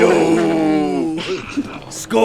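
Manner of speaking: put-on drunk shout. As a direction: bellow it like a drunk bro. Echoing the drunk dude yell.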